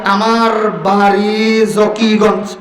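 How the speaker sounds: slow, drawn-out syllables; slow demonstration. Shown as a demonstration. Preacher giving the congregation words to try, slowly. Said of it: "টুট বন্ধ কইরা".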